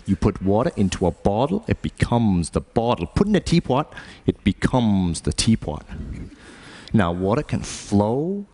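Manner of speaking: Bruce Lee. Acted. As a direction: intone it like a kung fu master. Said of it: "philosophy lessons from Bruce Lee".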